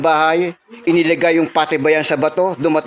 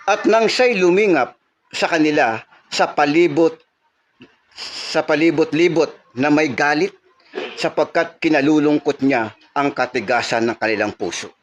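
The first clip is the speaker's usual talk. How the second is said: scripture reading. Acted. Preacher reads Mark to the church, solemn scripture reading. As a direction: read the Gospel passage out to the congregation. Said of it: "ganito yung pagkakasabi".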